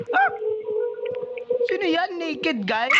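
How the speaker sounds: high, startled question; surprised. Real, not acted. Startled by naked entity.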